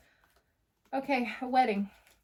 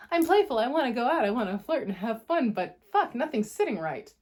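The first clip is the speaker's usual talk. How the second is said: voicing the client; 3 semitones higher, 5 dB louder than usual. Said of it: "voicing the Aries reader".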